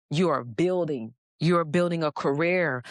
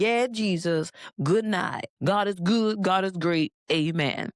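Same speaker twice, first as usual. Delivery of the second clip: rushed prayer; 3 semitones higher than usual. Retold or imitated. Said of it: "ten-second little prayer like".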